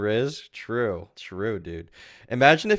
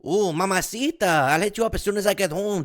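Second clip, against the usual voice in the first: high, hammed-up Latino accent; mocking the bad accent; 9 semitones higher than usual. Streamer mocking the clip's bad Latino accent. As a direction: overdo the cheesy Latino lover. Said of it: "that's not a very good accent".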